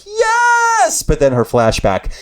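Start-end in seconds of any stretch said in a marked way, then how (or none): 0.1-1.0 high excited squeal of yes. Retold or imitated. Watching her grab throats, a thrilled high yes. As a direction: shriek yes with glee. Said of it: "I was like".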